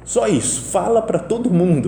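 a hint of grandma's last whisper-thin words; weak dying grandmother. Grandson retelling his dying grandma's last words, slow frail voice. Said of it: "Não tinha voz quase".

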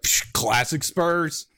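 slow, loud, weary scoff of a fan who only just started following; new hardcore Tottenham fan. Retold or imitated. Mocking a new Tottenham fan, slow loud jaded scoff. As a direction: drag it out like a put-upon long-time supporter. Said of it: "hardcore Tottenham fan for about eight months".

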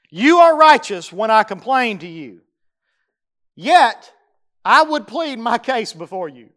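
preacher voicing Jeremiah; fervent paraphrase of a prayer. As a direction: press the plea with force.

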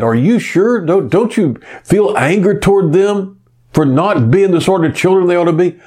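high, fast, pressing questions; rapid indignant retold question; insistent disbelief. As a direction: push her hard, almost pleading. Priest presses the old lady.

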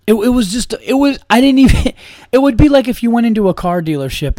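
high, loud, breaking into laughter; laughing disbelief. Real, not acted. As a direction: laugh through the words in disbelief. Laughing while telling a story.

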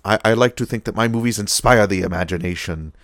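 lightly voiced grand villain; a hint of theatrical menace; maniacally classy. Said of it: "maniacally classy".

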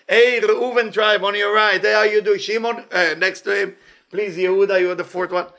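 hearty pretend roll call; calling out to neighbours. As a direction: call across to the next tribe, easing off. Imagines tribes greeting in the sea.

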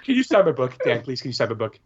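lightly voiced eager child; little boy impression. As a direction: imitate a young fan pleading. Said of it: "this little boy".

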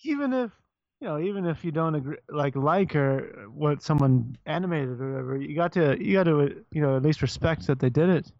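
hesitant, lightly Canadian-sounding delivery; Canadian accent. Shown as a demonstration. Redoing the festival guy's line, light Canadian accent. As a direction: stumble politely through a mild Canadian accent. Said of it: "there's the Canadian".

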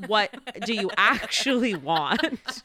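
slow, emphatic mock exasperation; exasperated stylist. Stylist questioning a client with too many pictures, exasperated. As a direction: draw out the question in playful exasperation.

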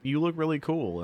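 high, breezy mock praise; shallow compliment. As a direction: say it like a throwaway nicety.

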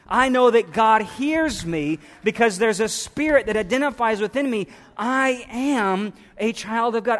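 impassioned cry of faith. Acted. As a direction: cry it out like a preacher, stretching the key words. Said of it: "the ones who are crying out".

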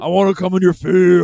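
laughing. Pretend. Joking moose voice while laughing.

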